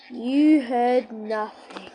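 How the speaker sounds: slow hushed whisper. Real, not acted. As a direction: breathe it secretly. Secret told after going quiet.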